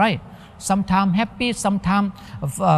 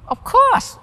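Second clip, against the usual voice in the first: a much higher, louder of course; acting out the spouse happily agreeing to take advice; eager of course; 3 dB louder than usual. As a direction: jump in eagerly. Acted reply to asking advice.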